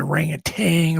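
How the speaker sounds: "orangutan" ending in -tang; orangutan rhyming its last syllable with "hang"; variant pronunciation. Shown as a demonstration. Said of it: "Pronounce orangutan. Is it orangutan".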